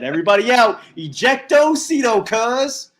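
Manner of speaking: high, playful catchphrase call. Acted. Joking that everybody must get out, calling out. Jokey movie catchphrase called out.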